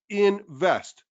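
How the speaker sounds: invest, the word alone, firm and falling; stress on invest. Shown as a demonstration. Host insisting viewers type invest, single word stressed. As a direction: say invest on its own, punched. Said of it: "Put the word invest".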